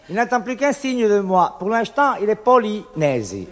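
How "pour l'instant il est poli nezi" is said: dropped threat. Acted. Threat punchline.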